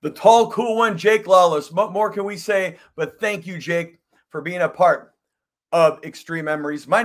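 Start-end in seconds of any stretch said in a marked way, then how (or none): 0.0-1.7 louder, punchy host announcement; announcer build-up. Acted. Host hyping guest to viewers, loud announcer style. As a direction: sell the nickname like a ring announcer.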